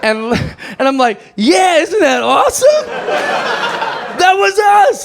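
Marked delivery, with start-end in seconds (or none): 1.4-5.1 high, slow, laughing glee; bragging to the club owner, high giddy laughter; proud excitement. Retold or imitated. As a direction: gush with giddy pride. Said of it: "I was just so excited".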